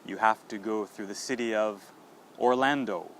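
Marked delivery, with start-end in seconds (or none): 2.4-3.1 "Orlando" as or-LAN-doh, last o sounded; final O pronounced. Shown as a demonstration. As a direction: model Orlando with its full final oh. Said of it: "that is often mispronounced".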